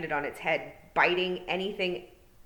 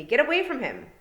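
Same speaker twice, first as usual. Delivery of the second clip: higher, louder shout to back off; urgent yell; 8 semitones higher, 7 dB louder than usual. A narrator's reading. Tiffany protecting the boy, loud yell. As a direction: drive the pixies away. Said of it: "yelled Tiffany".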